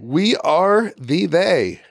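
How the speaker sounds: slow, every word set apart and weighted; weighty motto. Real, not acted. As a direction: lay it down slowly like a slogan. Host announces the guest's motto.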